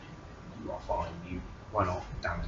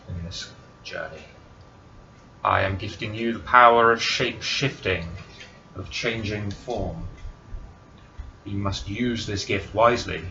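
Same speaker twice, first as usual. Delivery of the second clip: booming divine voice; 8 dB louder than usual. Acted. Divine being grants powers.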